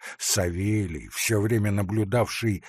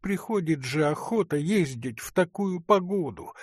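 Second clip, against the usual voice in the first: sighing; 5 semitones higher than usual. A narrator's reading. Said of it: "вздохнула дьячиха".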